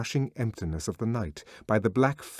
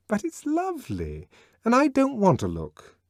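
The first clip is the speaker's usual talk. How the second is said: put-on much higher, girlish protest; Lenina pleading; 13 semitones higher, 4 dB louder than usual. A narrator's reading. Lenina to Bernard over the sea, high and pleading. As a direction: whimper it high, like a scared girl.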